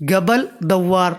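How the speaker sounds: قبل دوار said slowly and deliberately; slow demo. Shown as a demonstration. Teacher repeating the Arabic for viewers, slow. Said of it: "تو کہو گے قبل دوار".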